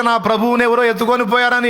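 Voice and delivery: high-pitched imitation of weeping; retold tearful plea. Mary tells the angels her Lord was taken, imitated tearful plea. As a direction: mimic a distressed woman's complaint. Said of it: "ఏడిచింది".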